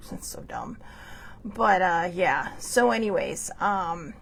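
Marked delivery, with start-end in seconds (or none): 0.1-0.8 whisper. Real, not acted. Grumbling aside.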